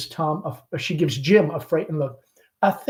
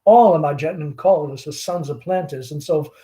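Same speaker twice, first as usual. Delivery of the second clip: lightly voiced chatty Southern belle mother; Southern mother hostess; 3 semitones higher, 5 dB louder than usual. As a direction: gush over the guest like a fading belle. Amanda chatting with the caller.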